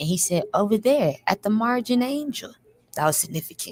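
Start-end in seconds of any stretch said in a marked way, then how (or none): 0.5-2.5 sugary, sweet, high, pretty-sounding voice. Retelling what a soft-voiced inmate said: imitating a soft, pretty voice. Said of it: "That's how he talk. Soft ass, pretty ass voice".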